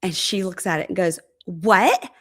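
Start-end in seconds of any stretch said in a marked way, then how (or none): 1.5-2.1 higher, incredulous mock outburst; acted-out appalled questions; shocked disbelief. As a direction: imitate someone stunned by a text. Acts her reading shocking text.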